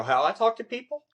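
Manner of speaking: high questioning echo on "How I talk to people?"; pointed, high-pitched correction of "you" to "I"; stress on I as correction. Shown as a demonstration. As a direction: prompt them, voice jumping up on "I" and rising at the end. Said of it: "I would go".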